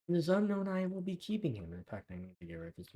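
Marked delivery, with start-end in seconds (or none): 0.1-1.7 excited. Real, not acted. Excited about villager trades.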